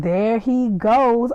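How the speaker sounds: very slow imitated Southern drawl; country Southern accent. Quoting country Louis, slow Southern accent. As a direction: stretch it out in country twang. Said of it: "Just country".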